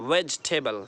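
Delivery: vegetable as "vej-tebal"; correct pronunciation. Shown as a demonstration. Teacher checking learners understood, "vej-tebal" without middle vowel. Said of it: "समझ में आ गया".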